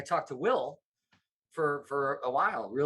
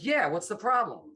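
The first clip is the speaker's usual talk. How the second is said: mildly snapped retort, pitched higher; mock yell; 4 semitones higher than usual. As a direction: imitate a boss challenging someone, without really yelling. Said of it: "Bob kinda yelled at him".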